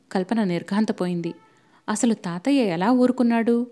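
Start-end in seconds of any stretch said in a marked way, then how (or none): 1.9-3.7 raised, annoyed question; a touch of exasperation; irritated. Acted. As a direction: ask it with open irritation. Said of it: "కవిత చిరాకు పడింది".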